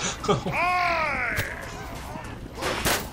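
soft, high, drawn-out laughing squeal. Real, not acted. Gamer tallies eight deaths to three kills, high laugh. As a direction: let out a long, high, quiet laugh.

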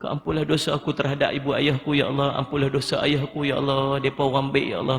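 demonstrated grieving plea, voice rising and sinking; sorrowful, imploring prayer with fading line ends; pleading with God. Shown as a demonstration. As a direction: mourn a father in prayer, stretching "ya Allah". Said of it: "Minta merayu dengan Allah".

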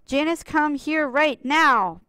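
Mister Jeeves bellowing at Janice; mock bellow. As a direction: bellow it out like a stern boss. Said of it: "bellowed Mister Jeeves".

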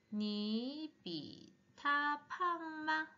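slow, drawn-out model sentence; slow modelling. Shown as a demonstration. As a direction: stretch each syllable for learners. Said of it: "조금 속도를 빨리 해볼게요". (천천히 늘여 읽는 시범)

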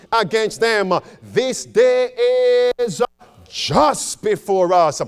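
measured sermon reading with weight on key words; slow, deliberate reading. Real, not acted. Pastor reading a warning to the church, slow and deliberate. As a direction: read it out phrase by phrase. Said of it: "Let's read now slowly".

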